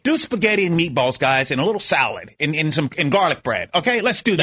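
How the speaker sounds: lightly put-on white-guy voice; ordering food in a mild mock white voice. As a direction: suggest a hint of a stereotypical white guy. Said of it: "You're doing your white voice".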